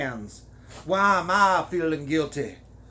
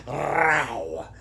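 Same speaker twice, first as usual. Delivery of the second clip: rolled "rrraow" growl; mock animal growl. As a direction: growl it out playfully. Reader mocks the character's groan.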